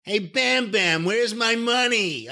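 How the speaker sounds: slow, high whiny Jersey voice; Larry Sharpe voice. Retold or imitated. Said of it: "like a whiny Jersey voice".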